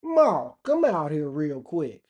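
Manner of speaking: slow, loud holler to fetch someone; calling for Ma. Acted. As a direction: holler for Ma like a mock country yokel. Calling mother out to look.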